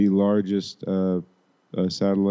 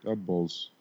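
hammed-up Chicago sports fan accent; pretend Chicago accent; 3 semitones lower, 8 dB quieter than usual. Echoing the comedy sketch, pretend Chicago accent. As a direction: imitate a Chicago superfan toasting the team. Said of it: "with pretend Chicago accents".

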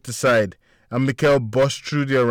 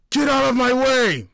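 high, loud pushing scream; 5 dB louder than usual. A narrator's reading. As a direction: bark it at the crowd. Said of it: "Mikael screamed".

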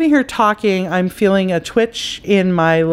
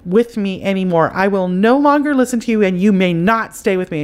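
with authority; 3 semitones higher than usual. Shown as a demonstration. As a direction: lay down the law to the spirit. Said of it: "you say it with authority".

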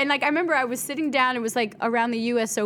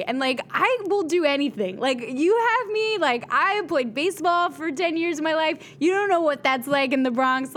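retold eager plea, pitched higher; 4 semitones higher than usual. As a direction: push hard to sell yourself. Pleading her case in interview.

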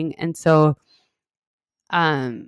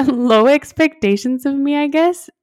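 laughing; 7 semitones higher, 5 dB louder than usual. Real, not acted. Laughing about mom's low expectations.

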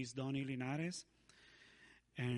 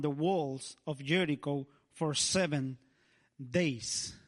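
scripture reading; 4 dB louder than usual. Acted. Preacher reading Hebrews to the church. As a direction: read the Bible verse with weight.

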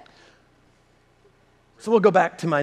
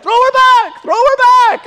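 loud, very high comic yell; acted urging shout; 9 dB louder than usual. Friend wanting his baby thrown back, high mock shout. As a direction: call across the room in a high mock shout.

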